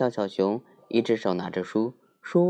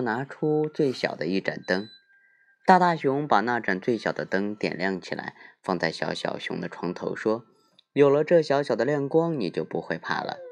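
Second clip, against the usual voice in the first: sleep story narrator. A narrator's reading.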